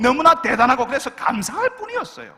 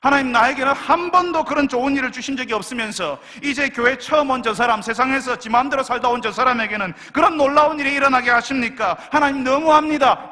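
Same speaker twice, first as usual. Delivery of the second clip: aggrieved complaint; 3 semitones higher, 5 dB louder than usual. Retold or imitated. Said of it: "이렇게 이야기하는 겁니다".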